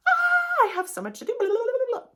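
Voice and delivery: high, loud, breathless mock panic; mock frantic rush. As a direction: play the overwhelmed list-maker in a hammed-up rush. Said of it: "slow it down".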